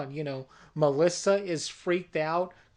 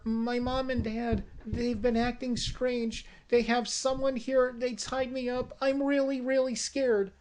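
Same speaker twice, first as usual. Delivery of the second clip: put-on scared little girl; 5 semitones higher than usual. Frightened child tells her story.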